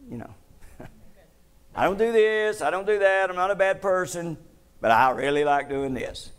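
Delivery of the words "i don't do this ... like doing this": high, whiny mock churchgoer pleading. Preacher mocking a churchgoer's excuse, high and whiny. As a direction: mimic a believer clinging to a habit.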